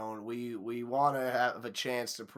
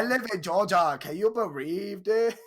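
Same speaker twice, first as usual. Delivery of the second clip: mock Asian accent; 7 semitones higher, 5 dB louder than usual. Host imagines the girl posting about Georgia, mock Asian accent. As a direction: put on a hammed-up Asian accent, pitched up. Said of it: "Asian accents that I do".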